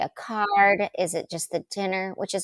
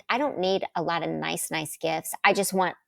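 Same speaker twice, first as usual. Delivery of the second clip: usual speaking voice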